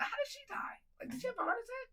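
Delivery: hushed questioning whisper. Real, not acted. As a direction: drop to a whisper. Whispered aside about his mom.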